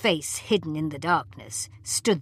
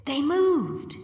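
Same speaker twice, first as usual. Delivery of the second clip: much higher alarmed cry; frightened; 11 semitones higher than usual. A narrator's reading. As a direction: insist in fright. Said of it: "Susan screamed".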